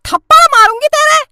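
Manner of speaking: high sharp threat; angry threat. Acted. Mother threatening her son with a slap.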